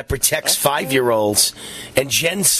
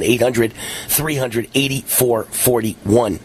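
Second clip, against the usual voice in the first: slow clear repeat; 3 semitones lower, slower than usual. Shown as a demonstration.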